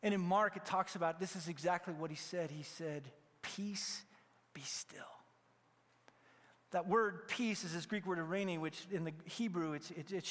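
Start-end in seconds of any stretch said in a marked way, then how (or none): 3.4-5.0 soft, near-whispered command to the storm; calm the sea with a hush, not a shout. Retold or imitated. Jesus quietly telling the storm to be still.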